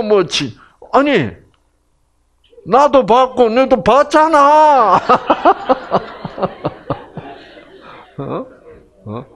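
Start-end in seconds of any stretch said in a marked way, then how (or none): 2.7-5.0 high, loud and slowing exasperation; 높고 크게 답답하다는 듯이; exasperated retort. Retold or imitated. Acting the husband's annoyed retort. 5.1-7.3 high wheezy burst of laughter; breathy laugh. Real, not acted. Laughing at own joke.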